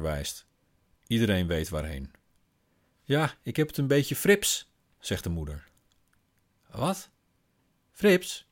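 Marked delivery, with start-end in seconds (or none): 3.0-4.7 a choked, strange-sounding "frips"; talking oddly. Acted. Mother answers her daughter, voice oddly strangled on "frips". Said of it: "Waarom praat je dan zo raar". 6.7-8.5 very high, astonished "Frips?"; baffled child. Acted. Daughter repeats her mother's odd word, very high and astonished.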